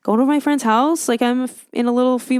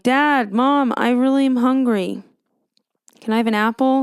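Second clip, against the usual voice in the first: lightly voiced child asking parents; mock kid calling to mom and dad; pleading child; 2 semitones higher, 3 dB louder than usual. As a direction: pipe up like a hungry kid, slightly raised. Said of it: "You know what children do? They're like".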